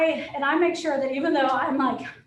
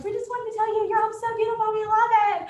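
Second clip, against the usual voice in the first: gushing buyers; 9 semitones higher, 5 dB louder than usual. Retold or imitated. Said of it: "And they're like".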